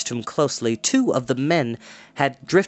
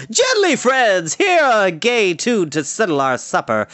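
bard calling out; 8 semitones higher, 4 dB louder than usual. A narrator's reading. Bard calling to calm the quarrel, high merry call. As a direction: call out to calm the men, lilting. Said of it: "the bard called out".

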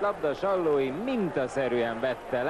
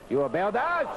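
excited; 8 semitones higher than usual. Real, not acted. Dangerous cross into the box.

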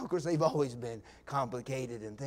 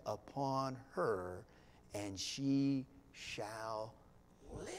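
steady, trusting plea, slowing at the end; confident faith; 3 semitones lower than usual. Retold or imitated. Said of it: "Do you hear that confidence?".

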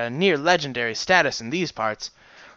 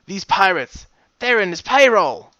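alarmed; 7 semitones higher, 7 dB louder than usual. Acted. Alarmed realization.

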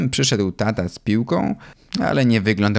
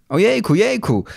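high-pitched wailing protest, moderately raised; children's cry; 11 semitones higher than usual. A narrator's reading. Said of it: "zaczęli krzyczeć".

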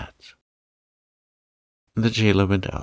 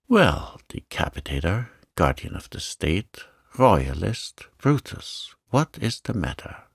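teasing guest. Acted. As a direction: tease the returning host as one guest. Guests exclaim at entrance.

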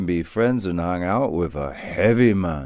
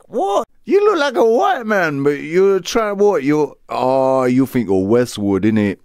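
put-on high-pitched London street accent, louder; mock a poser in a high London street voice; 7 semitones higher, 3 dB louder than usual. London street guy mocking a white poser, high and loud. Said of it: "this is the guy that's like".

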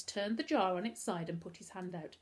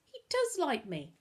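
high, delighted realisation; happy; 10 semitones higher, 4 dB louder than usual. A narrator's reading. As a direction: exult at being liked, stressing "does". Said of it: "laughed Novak happily".

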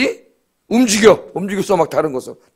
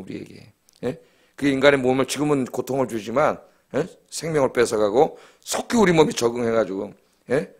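lower, softer praying voice; recounted prayer; 5 semitones lower, 4 dB quieter than usual. Retold or imitated. Preacher retelling his prayer for natural healing, subdued praying. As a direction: plead with God in a subdued voice.

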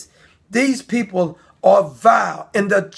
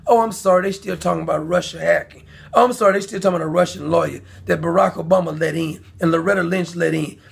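sarcastic mock apology; 5 semitones lower, faster than usual. Sarcastically voicing mainstream media.

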